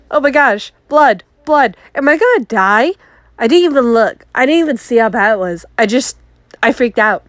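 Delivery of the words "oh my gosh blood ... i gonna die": mock panic. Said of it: "And I was like".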